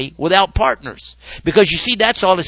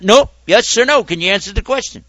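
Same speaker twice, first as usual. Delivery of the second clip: pushy questioner; 3 semitones higher, 3 dB louder than usual. Acted. Questioner pressing for yes or no, loud insistence. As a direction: badger him for a straight answer.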